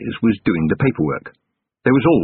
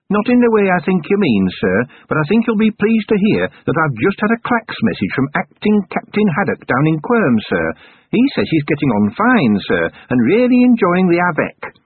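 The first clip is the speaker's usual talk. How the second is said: put-on higher, eager young dwarf sergeant; dwarf sergeant's voice; 9 semitones higher than usual. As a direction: pitch it up as the keen dwarf reporting.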